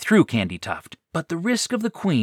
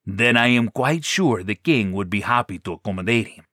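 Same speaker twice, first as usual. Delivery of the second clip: Minotaur voice. Acted. Minotaur Scalar answers.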